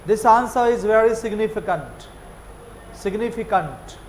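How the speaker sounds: slow sing-song British significant; British lilt, slow. Shown as a demonstration. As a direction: let the sentence dance slowly. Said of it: "ऐसे dance करते हैं". (अंग्रेज़ों की तरह झूमते हुए)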